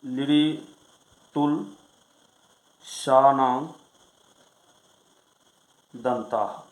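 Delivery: each word of the rule set apart by long pauses; sutra recitation. Shown as a demonstration. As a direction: chant the sutra slowly, word by word. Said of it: "अगला सूत्र है".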